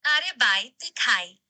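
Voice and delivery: Hindi in an Indian accent. Shown as a demonstration. AI told to keep it up all conversation, Indian accent. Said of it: "Speak in an Indian accent".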